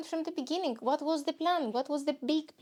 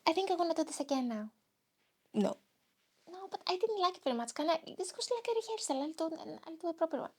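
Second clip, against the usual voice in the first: eager to redo; 4 semitones higher, 4 dB quieter, faster than usual. Real, not acted. Wants to redo the podcast.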